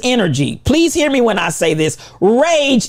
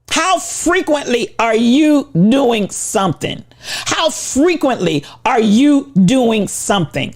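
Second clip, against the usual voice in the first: slow, pointed question. Shown as a demonstration. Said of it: "I'm gonna ask it again".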